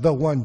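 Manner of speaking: slow, emphatic "THE one". Real, not acted. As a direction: stress on THE in "the one", drawn out slowly. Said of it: "it's emphatic".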